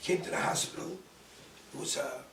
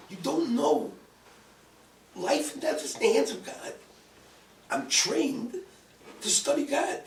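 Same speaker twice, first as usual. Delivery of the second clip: raised, louder, emphatic lecture; impassioned rebuke; 6 semitones higher, 4 dB louder than usual. Retold or imitated. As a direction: declare your authority point by point. Lecturing doctor on God's authority.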